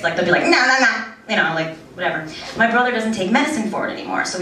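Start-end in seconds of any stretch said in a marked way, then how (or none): 0.4-0.9 imitated nervous tic. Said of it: "nervous tics".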